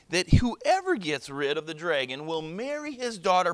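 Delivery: loud, high herald's proclamation; official announcement. Acted. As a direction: proclaim it to the crowd. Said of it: "made an official announcement".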